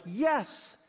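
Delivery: high-pitched acted yes; eager acceptance. Jacob accepting his family's blessing, eager. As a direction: jump at the offer, pitch up.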